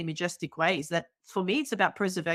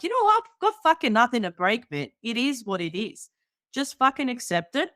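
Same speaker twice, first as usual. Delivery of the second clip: higher and louder, fed up; exasperated outburst; 5 semitones higher, 4 dB louder than usual. Retold or imitated. Telling the internet off, a loud exasperated outburst. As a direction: blurt it out like you're done with the whole debate. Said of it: "I'm like".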